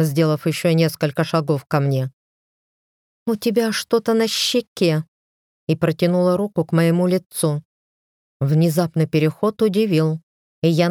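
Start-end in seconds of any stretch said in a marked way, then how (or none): 3.3-5.1 sly sweetness. Acted. Sly feigned concern before slap.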